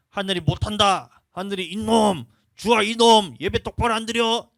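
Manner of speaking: put-on loud, high angry scolding of his boys; scolding father. Dad scolding his sons for sloppy worship, loud and angry. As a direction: bark it like a fed-up dad.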